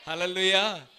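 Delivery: called out loud to the church; loud hallelujah. Real, not acted. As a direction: lead the hall in a loud hallelujah. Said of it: "గట్టిగా చెప్పండి". (గట్టిగా హల్లెలూయా)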